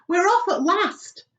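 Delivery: high, loud cry of relief; excited cheer. Acted. Creatures cheering as the peach finally departs, delighted. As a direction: cheer at last.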